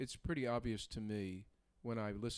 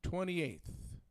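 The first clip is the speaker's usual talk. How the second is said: higher, louder, word-by-word date; slowed-down announcement; 8 semitones higher, 5 dB louder, much slower than usual. Shown as a demonstration. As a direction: spell the date out with deliberate pauses. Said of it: "we're talking too fast".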